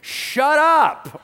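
mock exasperated outburst; exasperated shout. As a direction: groan then yell at them. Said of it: "he's just like".

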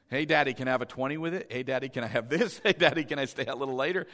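lightly imitated pestering, very fast; rapid-fire child requests. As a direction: rattle off requests like a kid working Dad. Imitates daughter wheedling things from Daddy.

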